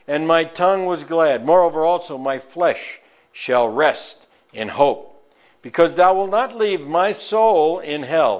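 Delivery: a bold apostle's address to the crowd; Peter preaching. Acted. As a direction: proclaim it like Peter at Pentecost. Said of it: "this is Peter's great sermon".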